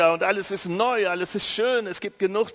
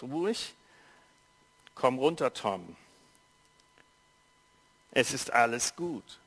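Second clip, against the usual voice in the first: deep calm voice; 2 semitones lower than usual. A narrator's reading. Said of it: "eine tiefe Stimme sagt".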